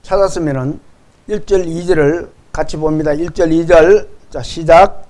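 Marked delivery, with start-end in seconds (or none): none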